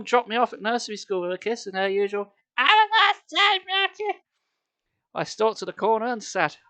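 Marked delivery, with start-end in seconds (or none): 2.6-4.2 high, louder chirpy mum voice; sing-song it like a cheerful mum; mum's voice. Retold or imitated. Mum dropping son at nursery, high cheerful goodbye.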